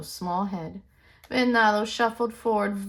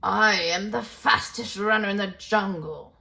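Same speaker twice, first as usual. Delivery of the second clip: proud boast; 4 dB louder than usual. Acted. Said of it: "He lifted his proud head".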